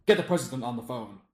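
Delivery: a general giving an order; barking general. Acted. General watching the parade on TV, barking an order. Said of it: "some general is sat watching the parade on T V, going".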